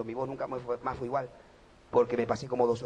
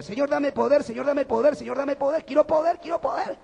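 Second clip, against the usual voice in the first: pleading prayer; 11 semitones higher, 7 dB louder than usual. Retold or imitated. Retold pleading prayer for power.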